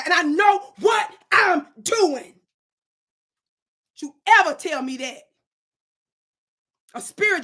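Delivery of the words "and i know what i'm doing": slow shout. Real, not acted. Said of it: "I'm in a zone right now".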